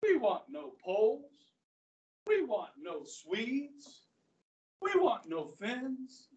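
mock the president line by line, taking your time; lightly hammed scornful recital; mocking Hitler. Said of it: "mocking the president".

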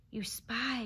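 understated bitter hiss; hissed accusation. A narrator's reading. Fox denouncing the dog, hissing. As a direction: contempt without raising the volume. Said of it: "he hissed".

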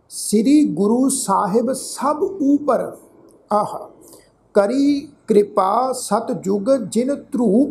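slow, measured verse reading with pauses; slow sacred-verse recital; scripture recitation. Shown as a demonstration. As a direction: recite each phrase deliberately, drawing out the words.

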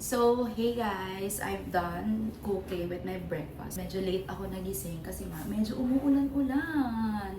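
talking with food in mouth; chewing while talking. Real, not acted. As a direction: speak around a mouthful. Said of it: "habang kumakain ako".

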